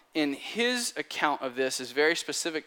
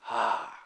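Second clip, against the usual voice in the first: heavy exhaled "ah"; acted sigh; 3 dB quieter than usual. Jesus hears the rooster crow, acted heavy sigh. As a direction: let out a pained breath, in character.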